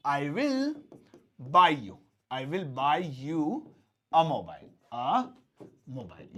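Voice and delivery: very slow, fading model sentence; slow demo. Shown as a demonstration. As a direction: drag it out for the class. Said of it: "तो जैसे".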